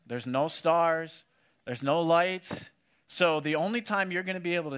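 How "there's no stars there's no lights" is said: slow emphasis. Shown as a demonstration. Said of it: "sermon emphasis".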